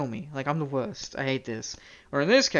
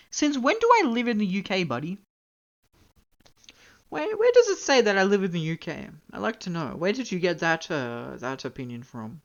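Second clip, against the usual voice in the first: mock indignation; 3 semitones higher than usual. Real, not acted. Streamer challenges viewer who placed them in the UK, mock indignant. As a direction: demand an explanation in mock offence.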